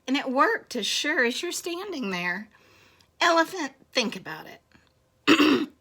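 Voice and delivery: lightly voiced storybook mouse; cheeky little mouse. Mouse reasoning with the scared elephant, lightly cheeky.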